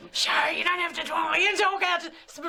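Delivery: host demonstrating projection; mock shouting. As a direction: shout it like a stage coach. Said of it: "project, darling".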